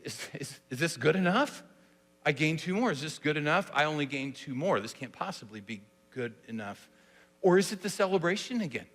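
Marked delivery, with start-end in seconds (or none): 0.0-6.9 softer, trailing, doubting himself; anxious question. Shown as a demonstration. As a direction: plead that it's enough. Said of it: "Do you hear it as a question?".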